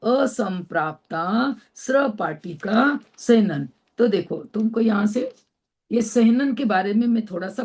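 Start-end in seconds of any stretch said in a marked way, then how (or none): 0.0-3.7 slow careful name. Shown as a demonstration. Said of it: "आ रही समझ में?".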